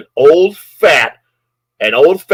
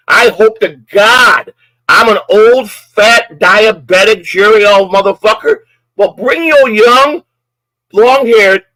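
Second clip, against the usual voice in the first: higher, slow, seething insults at a rival; slow raised-pitch furious insults hurled at a stranger; furious taunt; 4 semitones higher than usual. Real, not acted. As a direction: spit each insult out at him, slow and raised. Streamer taunting the man who threatened him.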